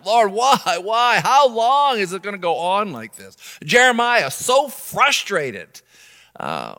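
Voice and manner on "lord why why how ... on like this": higher, louder pleading why; complaining plea. Retold or imitated. Habakkuk complaining to the Lord, pleading. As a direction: beg God for an end. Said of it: "he was complaining about his life".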